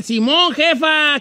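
lightly acted eager approval; mock approving son. Sons telling their mother yes, mock approval. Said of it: "Entre los hijos que sí decían".

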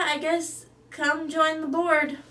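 normal talking voice

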